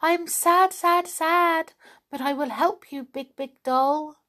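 high, sad bird voice, slowing at the end; a gentle sad songbird; sad little thrush. A narrator's reading. Thrush tells the doll she is sad but will help.

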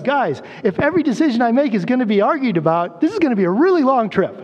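a patient teacher's light exasperation; exasperated Jesus. Retold or imitated. Jesus telling the arguing disciples, mock exasperated and quick. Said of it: "And he's like".

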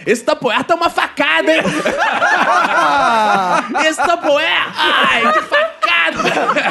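horror movie catchphrase. Acted. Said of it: "pode ter um bordão que é".

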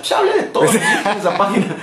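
ordinary delivery

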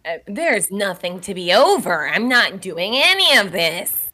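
composed, even-voiced reply; calm denial. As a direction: stay unruffled against the yelling. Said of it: "while Meredith stays calm, basically".

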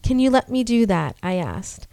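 steady storytelling read; story narration. A narrator's reading. Reads horror story aloud.

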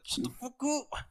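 high, sharp fed-up snap; annoyed snap. Retold or imitated. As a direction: tell him off, exasperated. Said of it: "I was like".

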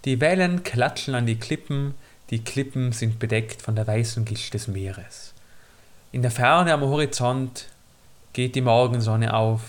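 low, calm storyteller voice; story narration. Acted. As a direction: read it like an audiobook opening. Reads a scene setting.

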